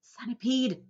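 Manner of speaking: loud call of a name; yell. A narrator's reading. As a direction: call him out urgently. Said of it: "yelled James".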